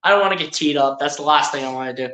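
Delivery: lightly imitated low, resigned grumble; Tobias. Commentator imitates player avoiding a technical, mock resigned. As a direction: back down in a mock sulk, pitched low. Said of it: "Tobias is like".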